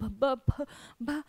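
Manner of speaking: acted stutter on the first sound; stammering. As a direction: stumble on the B again and again. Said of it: "She stammered".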